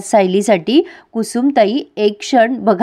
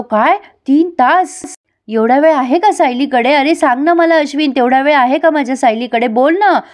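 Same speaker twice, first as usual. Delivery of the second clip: panicked; 4 semitones higher than usual. Retold or imitated. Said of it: "Arjun खूप panic होत असतो".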